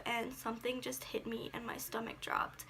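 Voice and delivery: soft unvoiced whisper; hushed. Real, not acted. Recalling the sudden panic in the car, whispered. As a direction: let it fall to a whisper.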